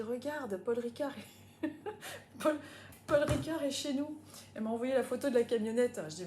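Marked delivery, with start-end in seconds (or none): 0.0-4.2 laughing quote. Retold or imitated. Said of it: "elle me dit".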